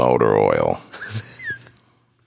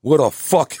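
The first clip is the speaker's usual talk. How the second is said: high-pitched mock outrage; hammed-up, high indignant outburst; irate lady diner; 11 semitones higher, 3 dB louder, slower than usual. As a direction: imitate an aggressive woman complaining at a restaurant. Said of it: "you're a lady and somebody".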